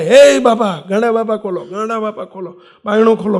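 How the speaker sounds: imitated loud call, easing off after the first words; retold shouting. Neighbour shouting at the locked door to open up, retold shout. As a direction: call out loudly, re-enacting the shout. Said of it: "Chimanbhai આવીને બૂમો પાડે".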